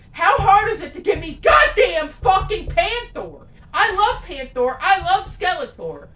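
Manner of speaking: real exasperated shout; frustrated rant. Real, not acted. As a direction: vent at the filmmakers. Ranting about missing villain Panther.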